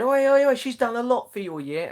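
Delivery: high, loud mock protest; big-mouthed teacher. Maths teacher steps in to defend colleague, big-mouthed protest. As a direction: cut in like an indignant maths teacher. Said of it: "known for, um, having a big mouth".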